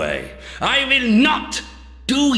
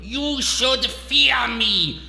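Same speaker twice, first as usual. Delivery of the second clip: raised, higher-pitched megalomaniac declaiming; enraged villain rant; 5 semitones higher than usual. Acted. Doctor proclaiming his power to his mocker, enraged. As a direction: build to a commanding cry.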